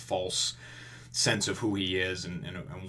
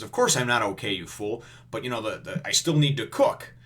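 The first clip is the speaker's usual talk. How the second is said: mock-indignant cook, punched louder; indignant retold reply; 5 dB louder than usual. Wounded cook answering the waiter, mock indignant. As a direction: act out the exasperated comeback, lightly.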